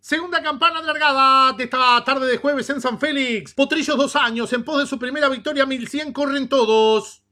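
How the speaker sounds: rapid live race call; horse race commentator. Acted. Second race call begins.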